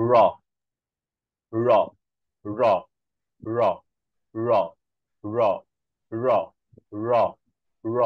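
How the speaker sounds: র with the tongue curled back toward the palate and flicked down; tongue tip back near the palate for each র; flapped ড়. Shown as a demonstration. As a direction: retroflex flap drill. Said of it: "যদি ডয় বিন্দুরা উচ্চারণ করি".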